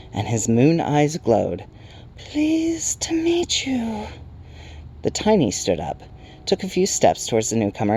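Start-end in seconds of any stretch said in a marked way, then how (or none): 2.2-4.1 very high, slow whispery creature; whispering Night Hob. A narrator's reading. Night creature greeting a newcomer, high slow whisper. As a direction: stretch it out in a high airy whisper. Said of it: "whispered the Night Hob".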